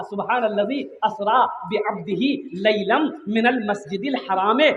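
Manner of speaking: measured Arabic verse recitation; Quran recitation. Real, not acted. Preacher recites a Quran verse to the congregation, reciting. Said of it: "सूरह बनी Israel की आयत है".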